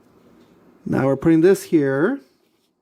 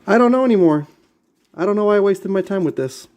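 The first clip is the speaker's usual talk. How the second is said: exasperated outburst; 4 semitones higher than usual. Real, not acted. Vlogger fed up with a toy kit, real exasperated outburst. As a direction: throw up your hands with real frustration at this toy.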